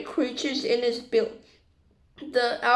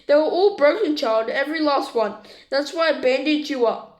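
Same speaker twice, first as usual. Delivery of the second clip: barely hidden fury. Acted. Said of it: "twitching with fury, trying to hide it".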